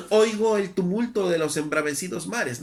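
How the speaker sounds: emphatic reading. Retold or imitated. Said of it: "Miren, dice".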